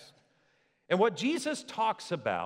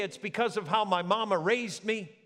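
mock excuse; 4 semitones higher than usual. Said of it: "They didn't say".

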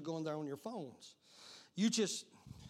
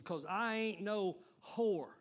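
"whore" set apart and drawn out; stress on whore; slower than usual. Retold or imitated. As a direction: land pointedly on the word "whore". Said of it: "see how I emphasize that word".

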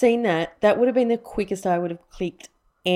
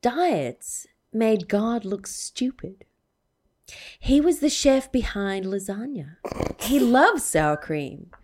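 put-on Tennessee accent. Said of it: "in a Tennessee accent".

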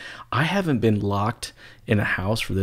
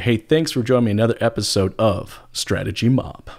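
radio announcer voice; 3 dB louder than usual. Shown as a demonstration. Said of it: "I like saying that in my announcer type voice".

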